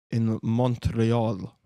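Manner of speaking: very slow, stretched "Montreal"; oddly drawn-out. Real, not acted. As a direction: drag out the city name grandly. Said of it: "I don't know why I said it like that".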